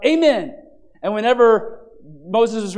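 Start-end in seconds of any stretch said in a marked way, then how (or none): 0.1-0.6 loud, raised amen; crowd's shouted response. Retold or imitated. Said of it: "they would shout".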